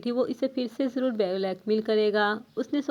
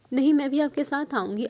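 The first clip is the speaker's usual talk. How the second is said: urgent plea; 3 semitones higher, faster than usual. Acted. Wife pleads with angry husband.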